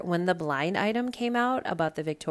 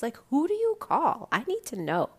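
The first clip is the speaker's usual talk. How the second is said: much higher and louder, baffled demand; incredulous outburst; 9 semitones higher, 5 dB louder than usual. Real, not acted. Host ranting to listeners about how women report him, in a high loud incredulous cry. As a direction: throw up your hands and demand an answer.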